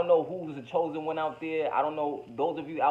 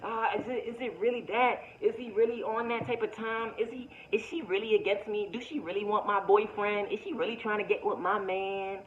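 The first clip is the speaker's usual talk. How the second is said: higher-pitched, hesitant self-questioning voice; doubting friend; 5 semitones higher than usual. Acted. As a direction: act out someone in doubt, pitched up. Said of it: "switching my voice around".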